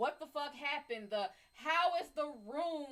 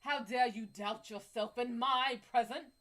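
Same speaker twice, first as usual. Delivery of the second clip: doting praise; 3 dB louder than usual. Pretend. Praising the guy for beating the orangutan, hammed-up. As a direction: flatter him grandly. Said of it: "You tell him".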